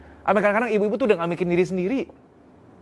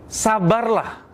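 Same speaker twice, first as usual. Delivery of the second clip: slow, stretched "sabarlah", higher; drawn-out plea; 6 semitones higher, much slower than usual. Real, not acted. Speaker urging husbands to be patient: slow earnest plea. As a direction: plead it out slowly.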